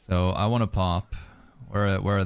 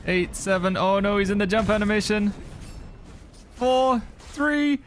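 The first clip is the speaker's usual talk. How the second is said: tense excited countdown; 13 semitones higher than usual. Real, not acted. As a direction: count it down, voice rising in suspense. Tense countdown, boss nearly dead.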